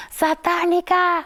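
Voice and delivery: a high, slow drawn-out taunt shouted across the mall; mock yell. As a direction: call it out to shame her. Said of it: "me grita".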